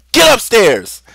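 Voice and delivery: imitating dad yelling; loud, high command cutting off the pleading; angry shouted order. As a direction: bellow it like a fed-up parent. Dad orders crying brother upstairs.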